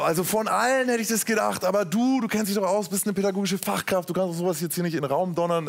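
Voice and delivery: höher einsetzender, empörter Einwand; gespielte Empörung. Retold or imitated. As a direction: protest in mock indignation. Spielt empörten Einwand gegenüber Frau nach. (gespielt empört)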